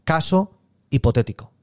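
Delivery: "caso" and "hipotético" set apart and stressed; emphasis on "caso hipotético". Shown as a demonstration. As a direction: lean deliberately on each word of "caso hipotético". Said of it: "haré el énfasis en".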